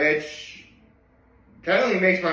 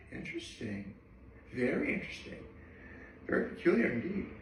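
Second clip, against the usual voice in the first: mock intrigued murmur; 12 dB quieter than usual. Mock intrigued musing on Gunko.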